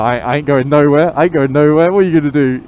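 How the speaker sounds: loud defiant challenge; defiant bad man. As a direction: square up, acting the hard man. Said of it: "thinking I'm some sort of bad man".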